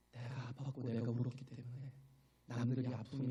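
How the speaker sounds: ordinary talk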